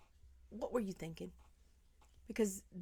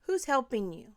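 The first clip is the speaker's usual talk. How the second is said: louder, pleading questions; pleading demand; 3 semitones higher, 5 dB louder than usual. Pretend. Wishing she could confront the mother, pleading and louder. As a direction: shake them awake with the questions. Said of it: "I wish I could shake you and say".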